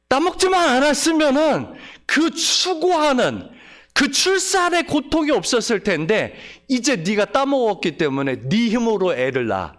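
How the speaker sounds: a hint of divine rebuke; mild voice of God. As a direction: speak as God laying down the curse. God's curse voiced to Eve.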